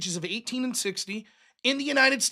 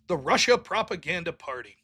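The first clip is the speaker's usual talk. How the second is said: mock quote; 8 semitones lower than usual. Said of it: "says world-renowned geohound".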